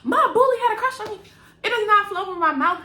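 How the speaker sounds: fast, high, laughing through it. Retold or imitated. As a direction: blurt it out cracking up. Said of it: "I'm sure it would be like".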